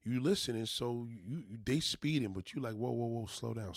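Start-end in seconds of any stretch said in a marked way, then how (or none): 2.8-3.8 P=A; calming whoa. Shown as a demonstration. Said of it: "you gotta say it just like that".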